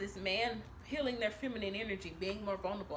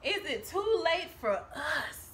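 slow, laughing through the plea; drawn out with a laugh; laughing mock plea; 4 semitones higher, much slower than usual. Reader mocking the querent, laughing. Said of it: "who the fuck is us".

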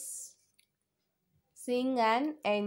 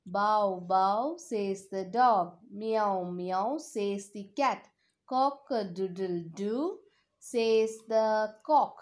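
put-on reading to a toddler. Repeats song for children.

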